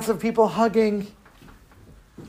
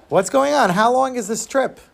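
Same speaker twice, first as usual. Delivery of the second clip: lightly acted kid, pitched up; puzzled boy; 6 semitones higher than usual. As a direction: ask like an impatient little boy. Boy questions fellow passenger.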